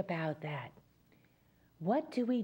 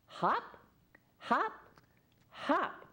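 higher, bouncing hop hop hop; bouncy hops; 7 semitones higher, much slower than usual. Shown as a demonstration. Storyteller leads children chanting hop, in a higher bouncing voice. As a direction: make each hop spring up. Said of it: "everyone say this with me".

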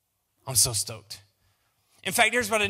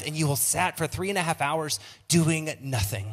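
stewardess voice; 3 dB louder than usual. Pretend. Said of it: "by talking in my stewardess voice".

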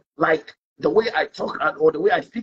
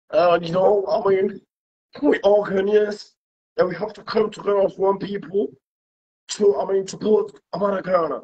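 mock political speech. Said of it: "this is how to talk".

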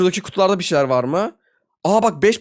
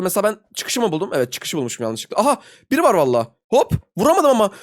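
ordinary delivery

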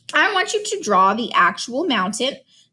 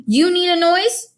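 frustrated; 7 semitones higher, 4 dB louder than usual. A narrator's reading. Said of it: "said Gregor in frustration".

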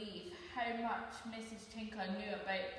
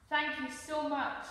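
mildly excited thanks, a little louder; exclaimed thanks; 3 semitones higher, 5 dB louder than usual. Acted. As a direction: exclaim it with a touch of delight. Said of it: "exclaimed Carlo".

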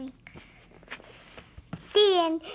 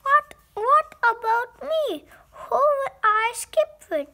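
louder, higher pleading question; upset outcry; 4 semitones higher, 5 dB louder than usual. Acted. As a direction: protest being left behind. Gerald upset about being left.

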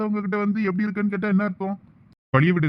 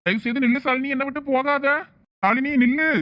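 desperate pleading; 8 semitones higher than usual. Acted. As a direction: beg her to stop, voice straining upward. Begging wife not to leave.

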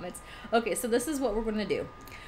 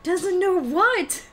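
slow, drawn-out, louder and higher; mock outraged question; 8 semitones higher, 7 dB louder, much slower than usual. Repeating a friend's question in mock outrage, slow and loud. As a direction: stretch it out in playful disbelief.

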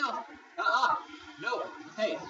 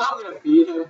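villainous gloat; 12 dB louder than usual. Pretend. Gloating over feeding on victim.

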